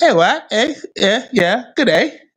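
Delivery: put-on British accent. Imitating Africans raised in the UK: imitating a British accent. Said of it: "that little accent".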